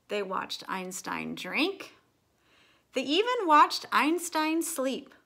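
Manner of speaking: lively storybook read-aloud with character voices; reading to children. A narrator's reading. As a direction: read it like storytime for little kids. Reads picture book aloud.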